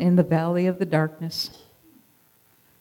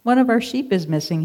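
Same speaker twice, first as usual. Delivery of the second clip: begging; 6 semitones higher than usual. Acted. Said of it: "he begged".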